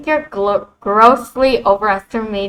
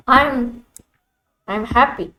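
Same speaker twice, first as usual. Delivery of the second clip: flustered gasp; 2 semitones higher, 4 dB quieter than usual. Acted. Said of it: "Grim being nice?".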